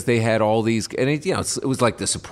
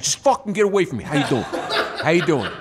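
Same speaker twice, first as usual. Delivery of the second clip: flustered actor; 4 semitones higher than usual. Retold or imitated. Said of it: "He's like".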